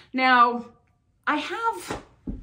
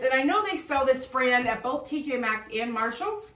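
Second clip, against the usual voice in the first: talking through hiccups; words broken by hiccups. Real, not acted. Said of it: "I have the hiccups".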